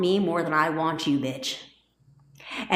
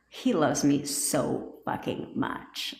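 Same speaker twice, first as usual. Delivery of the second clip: mock smitten whisper; 5 semitones lower, 5 dB quieter, much slower than usual. Mocking a smitten listener.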